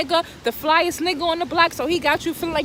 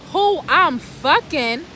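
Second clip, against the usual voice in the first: slow, stunned repeat of his question; slow disbelief; 3 dB louder, slower than usual. Pretend. Repeating her man's question back to him in slow disbelief. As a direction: echo it back slowly, not believing it. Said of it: "that's what I really wanted to say".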